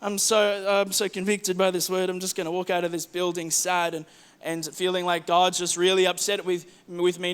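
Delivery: mock dejected. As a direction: play the guilty churchgoer sulking out, mildly. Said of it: "sometimes we go".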